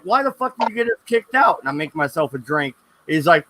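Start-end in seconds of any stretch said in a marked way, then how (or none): 0.0-1.6 high, fast mock outburst at his buddy; angry yell at friend. Back home, yelling at his drunk roommate about getting kicked out, a fast, high angry outburst. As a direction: retell the blow-up with a pitched-up angry burst.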